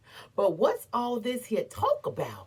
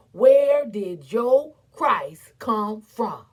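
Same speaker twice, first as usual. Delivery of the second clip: slow, louder demand; challenging; 7 dB louder, slower than usual. Acted. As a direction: throw the question at him. Challenging the man in black.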